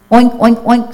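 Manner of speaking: high, quick pig oinks; snorting pig. A narrator's reading. Pig spots disguised Turkey, snorting oinks. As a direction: oink it out like a pig. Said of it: "snorted Pig".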